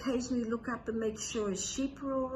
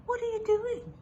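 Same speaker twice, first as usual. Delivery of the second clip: scholar asks; 12 semitones higher than usual. A narrator's reading. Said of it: "he said to the shepherd".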